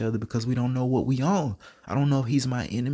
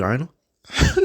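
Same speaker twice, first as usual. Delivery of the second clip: mock squeal; 5 semitones higher, 6 dB louder than usual. Mocking squeal about Lil Buddy.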